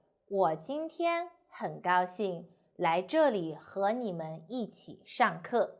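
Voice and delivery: slow, broken into short breath groups; phrased with pauses. Shown as a demonstration. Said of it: "So how I say it?".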